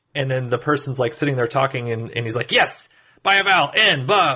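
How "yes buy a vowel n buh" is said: put-on rapid fast talking, higher. Retelling a movie scene of Larry watching Wheel of Fortune: imitating Larry talking super fast. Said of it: "talking, like, super, super fast".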